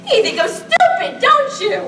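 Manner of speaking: rising, laughing accusation; bitter laughing challenge. Acted. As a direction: taunt her through a hurt laugh. Bella confronting her mother.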